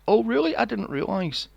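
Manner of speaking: high, breathy-free ditzy surprise; airhead girl. Retold or imitated. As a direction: play her sweetly clueless. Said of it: "She's like".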